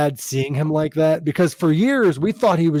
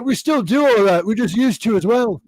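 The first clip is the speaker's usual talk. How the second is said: lightly imitated rocker, pitched up; higher-voiced, matter-of-fact mock answer; 5 semitones higher than usual. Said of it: "He's like".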